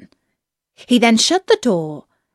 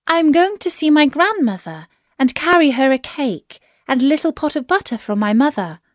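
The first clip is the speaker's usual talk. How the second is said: put-on higher-pitched little girl voice; 6 semitones higher, faster than usual. A narrator's reading. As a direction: answer innocently as a small child, pitched up. Child answers the wolf in story.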